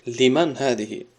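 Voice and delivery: آهسته و کشیده تکرار شده; «لمن هذه» را خیلی آهسته بگو; slow repeat. Shown as a demonstration. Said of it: "teacher repeats example slowly". (تکرار آهسته برای شاگردان)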